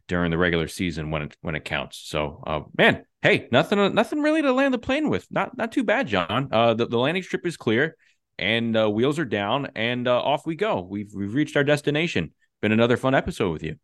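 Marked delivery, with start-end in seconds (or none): 2.8-12.3 high airline cabin announcer voice; flight attendant. Pretend. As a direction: announce the landing like cabin crew. Landing the plane sign-off.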